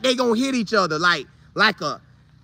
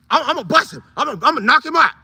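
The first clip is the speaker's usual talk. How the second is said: boastful player; 4 semitones higher, faster than usual. Retold or imitated. Mike voiced boasting before hit.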